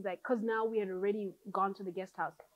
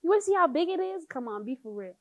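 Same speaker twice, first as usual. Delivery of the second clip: higher, louder, exasperated you-ain't-seen-it; exasperated insisting; 9 semitones higher, 7 dB louder than usual. Retold or imitated. Daughter telling her mom how big the belly is, loud and exasperated. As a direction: push it loud like she can't believe it.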